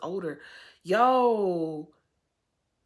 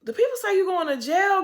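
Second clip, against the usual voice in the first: loud alarm; 11 semitones higher, 6 dB louder than usual. Real, not acted. Repeated louder.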